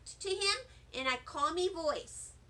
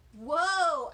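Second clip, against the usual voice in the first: amazed; 6 dB louder than usual. Acted. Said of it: "I said to my friend".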